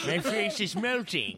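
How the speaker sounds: strained, wobbly melting voice. Pretend. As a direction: moan it like you're melting away. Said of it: "that's my melting voice".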